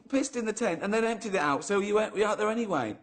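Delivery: high, incredulous cross-questioning; incredulous challenge. Real, not acted. Host catching friend out over the tent bottle, incredulous. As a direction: pick the story apart in disbelief.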